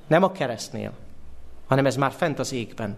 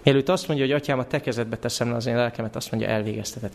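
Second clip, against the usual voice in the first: normal talking voice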